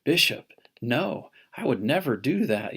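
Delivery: retold stunned, earnest denial; shocked denial. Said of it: "I was shocked, and I'm like".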